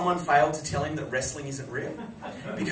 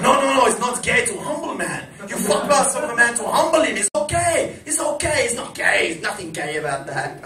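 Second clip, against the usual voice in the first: high, loud, insistent put-on voice; Sheik insisting; 9 semitones higher, 6 dB louder than usual. Imitating the Sheik protesting to Howard, high loud insistence. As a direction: protest like the Sheik, laughing through it. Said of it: "She goes".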